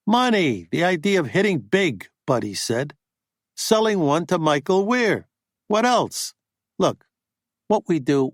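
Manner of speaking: a hint of a pushy agent griping; agent Buddy, indignant. Buddy pitching his plan.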